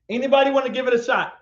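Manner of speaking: ordinary talk, nothing marked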